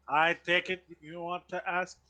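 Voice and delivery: put-on polite, formal old butler. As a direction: speak like a courteous household butler. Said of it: "my butler voice".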